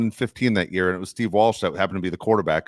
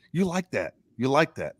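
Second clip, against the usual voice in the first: higher, gleeful mock taunt; imitating Kirk Cousins; 6 semitones higher than usual. Replaying Kirk Cousins' clip as a higher, gleeful mock taunt. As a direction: toss it back like a cocky quarterback. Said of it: "Kirk Cousins going".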